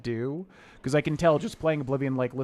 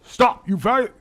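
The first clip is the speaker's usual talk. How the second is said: loud, high guard bark cut short; guard voice impression; 10 semitones higher, 10 dB louder, slower than usual. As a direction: try the guard's shout, then break off. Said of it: "I can't do, it's, like, close".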